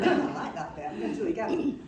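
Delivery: laughing. Real, not acted. Laughing after dramatic line.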